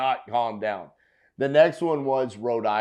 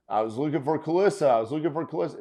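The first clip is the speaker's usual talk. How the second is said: mock cold caller; 4 semitones higher, much faster than usual. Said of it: "caught off guard by saying".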